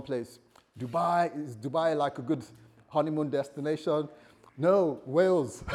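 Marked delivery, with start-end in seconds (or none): 4.6-5.6 slow, loud, bursting into laughter; laughing shout. Real, not acted. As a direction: blurt it out while cracking up. Jokes about honeymoon spot.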